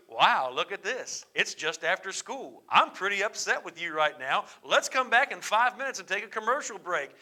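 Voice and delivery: hint of a corny after-school TV host, played as a joke; after-school special. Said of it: "You make it sound like an after-school special".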